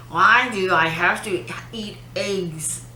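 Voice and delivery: slow, hammy talk from the side of the mouth; Gerard Butler out of mouth corner. Retold or imitated. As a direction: drag it out of one corner of the mouth. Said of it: "He always talks to the side of his mouth".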